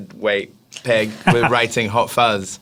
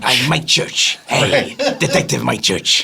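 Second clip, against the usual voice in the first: hammed-up British attempt at American; bad American accent; slower than usual. Brit mocking an actor's American accent, hammed-up. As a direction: overdo the American R in "Church". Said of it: "get into his American accent".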